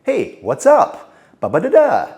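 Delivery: rising pitch on every phrase end; uptalk. Shown as a demonstration. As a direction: sound timid, lift each ending. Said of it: "they will increase the pitch of their voice".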